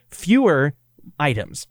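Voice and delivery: prissy, punched FEWER, mocking a grammar stickler; hammed-up stickler leaning hard on Fewer; mock proper correction. Cohost mocks Ian's grammar correction, loud and pointed. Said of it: "who sits around and says".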